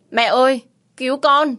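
high, loud panicked cry; terrified scream for help. Acted. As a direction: scream for mother-in-law to save her. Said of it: "run rẩy mà hét lớn".

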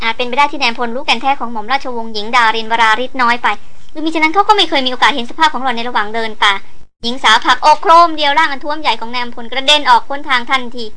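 ordinary delivery

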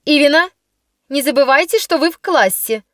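lightly sharp scolding teacher; sharp class mistress. Acted. Class mistress reprimanding Ivina, a hint of sharp scolding. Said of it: "прозвучал резкий голос классной дамы".

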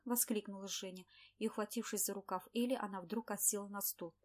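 plain reading voice

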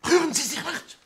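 sharp high order, shouted; commanding shout. Acted. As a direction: freeze them with a loud command. Inspector stops an intruder. (laut gerufener Befehl)

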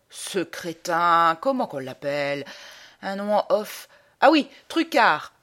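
grouchy officer groping for a name; blustering, absent-minded colonel; grumpy colonel. Acted. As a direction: grumble along, dragging words while remembering. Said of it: "Il me reçoit d'un air grognon".

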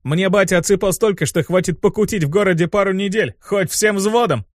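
high, showy brag stretched at the end; boasting. Acted. Demon showing off father's money, boasting. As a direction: brag to the whole squad. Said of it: "похвастался Мотив".

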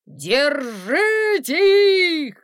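loud, slow shouted command; shouted order. A narrator's reading. Guard chief shouting to catch the fugitives. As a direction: order them seized.

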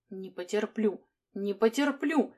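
clipped and hoarse. Acted. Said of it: "роняя отрывисто и хрипло на ходу".

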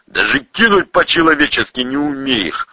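mildly outraged reproach; indignant. A narrator's reading. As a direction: scold him for clumsiness. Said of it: "возмутился Паратасов".

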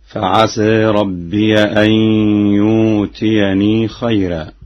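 ربي recited "rabbiya" with an open a; slow recitation, ربي said as rabbiya; fatha on ya. Shown as a demonstration. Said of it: "قرأها بفتح الياء هكذا".

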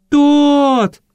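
high, loud desperate cry; screaming again. A narrator's reading. Girl screams for Todd as soldiers close in. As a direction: shout his name with all you have. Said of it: "снова закричала я".

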